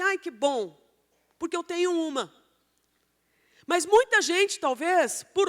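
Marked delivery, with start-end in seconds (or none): 0.0-2.3 mildly voiced happy relief; imitated contented sigh of approval; mock delight. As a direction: act out a pleased churchgoer with a light touch. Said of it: "muita gente vai ficar super feliz".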